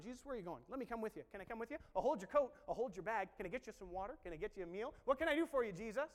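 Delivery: imitating a pestering, over-eager tagalong; mock eager helper; eager follower. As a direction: offer one favor after another, building eagerly. Acting eager followers of Jesus.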